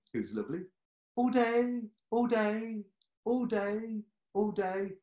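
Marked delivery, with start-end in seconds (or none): 1.2-4.9 very high, repeated sing-song refrain; a much higher, lilting loop of the phrase; patient Molly. Acted. Confused patient Molly repeats her phrase, very high. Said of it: "One of them is Molly".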